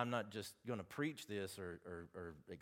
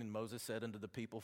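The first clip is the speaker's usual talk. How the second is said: Scripture reading. Acted. Reads Scripture aloud.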